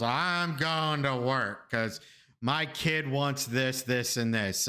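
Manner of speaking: slow, drawn-out tipsy whine; drunk passenger. Retold or imitated. Drunk passenger telling her driver she's working, mildly slurred imitation. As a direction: lightly imitate a drunk woman. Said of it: "she's already, like, drunk".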